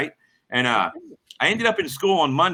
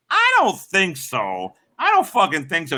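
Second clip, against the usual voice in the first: high, drawn-out retold refusal; incredulous refusal; 4 semitones higher, slower than usual. Driver refuses the bum's generator errand, incredulous. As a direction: stretch it out high in disbelief.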